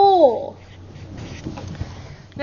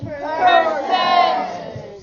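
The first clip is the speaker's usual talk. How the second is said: said to the ceiling. Shown as a demonstration. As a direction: project Percent upward. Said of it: "Say it to the ceiling".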